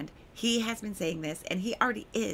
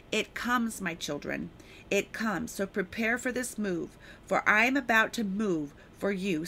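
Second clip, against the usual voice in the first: prophetic declaration; 4 dB louder than usual. Acted. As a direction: preach it as the voice of God to his children. Delivers a prophetic word from God.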